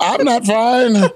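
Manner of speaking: slow, leaning hard on not; I'm NOT fine, each word drawn out; slow emphatic denial; stress on not. Real, not acted. Answers "what do you mean fine.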